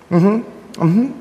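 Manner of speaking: a hint of a small child agreeing; grandchild's reply. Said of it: "you know, grandchild".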